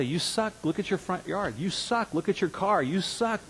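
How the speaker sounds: mock inner critic. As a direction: sneer at yourself like a nagging critic. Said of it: "I would have got up and say".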